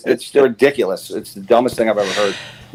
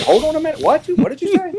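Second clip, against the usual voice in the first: high, shocked exclamation; reliving the jaw-drop moment; stunned disbelief; faster than usual. Retold or imitated. To stepmother on hearing of the album, high stunned disbelief.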